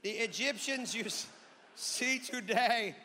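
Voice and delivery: put-on Indian accent as prophet; Indian-accented Moses. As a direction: declaim it with a mock Indian lilt. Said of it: "Apparently Moses was Indian".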